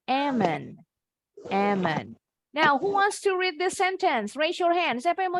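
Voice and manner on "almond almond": ALMOND as "emen", no L; silent-L ALMOND. Shown as a demonstration. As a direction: say ALMOND with silent L and falling tune. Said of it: "L-nya silent ya".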